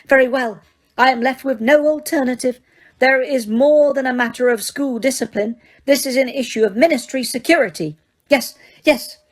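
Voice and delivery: high, firm enraged witch; clipped fury held in check; Umbridge voice. Acted. Umbridge voiced, talking herself into it.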